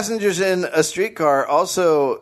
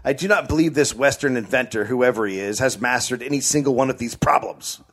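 angry; 4 semitones lower than usual. Acted.

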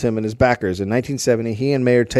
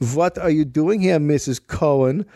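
cartoonish Jewish accent; 3 semitones higher than usual. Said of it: "in a cartoonish Jewish accent".

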